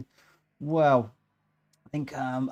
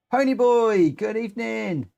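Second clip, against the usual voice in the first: calling out; 7 semitones higher, 4 dB louder than usual. Real, not acted. Greeting new joiner.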